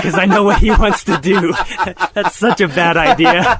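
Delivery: laughing through the words; words broken up by laughter. Real, not acted. Laughing while recounting.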